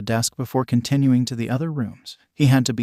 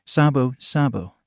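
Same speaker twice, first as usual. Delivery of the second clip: gentle but insistent. Acted. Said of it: "Ace's voice was gentle but insistent".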